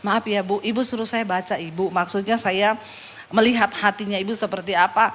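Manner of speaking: low, careful apology; cautious politeness. Retold or imitated. Pastor to hostile woman, cautious polite apology. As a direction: tread softly with a touchy listener.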